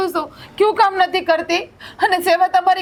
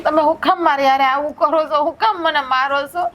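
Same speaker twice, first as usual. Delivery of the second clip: pleading through tears; tearful plea. Acted. Wife pleads tearfully with her husband who hits her. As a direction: beg him to stop hitting.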